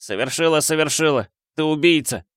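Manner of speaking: cold. A narrator's reading. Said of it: "холодно сказал он".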